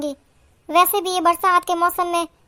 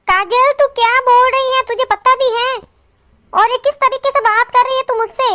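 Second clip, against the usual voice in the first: acted, mildly raised indignation; indignant rebuke; 3 semitones higher than usual. Elder sister-in-law scolding Kajal for talking back, indignant. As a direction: take her to task for her rudeness.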